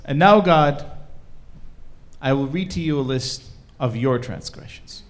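loud opening, then firm and measured; confronting God. Acted. Shoemaker turning the tables on God, loud and firm. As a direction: announce the charges to God with weight.

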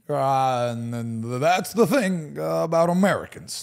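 lightly voiced, halting presidential speech; president impression. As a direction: imitate a politician, stretching the final words. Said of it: "the next one".

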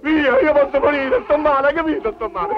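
put-on furious high cry of a sick old man; angry shout. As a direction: yell at the pest to get off. Shooing the animal away angrily.

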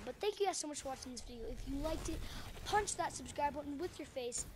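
rapid-fire outro patter; rushed, run-together thanks; talking super fast. Real, not acted. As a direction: rattle off the sign-off quickly. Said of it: "I talk super fast there".

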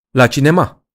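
can't believe the suggestion; incredulous. Acted. Francine hears the cinema plan, asks in disbelief.

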